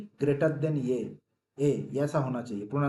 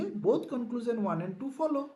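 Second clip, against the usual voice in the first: slow option reading; 9 semitones higher, much slower than usual. Shown as a demonstration. Teacher reading the answer option to students, slow and drawn out. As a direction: read the option very slowly, a little higher. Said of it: "तो हम क्या करेंगे".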